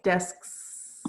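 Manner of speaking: "Desks" with crisp short s; clear desks. Shown as a demonstration. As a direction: say "Desks" cleanly, no hiss. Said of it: "you sound like a snake".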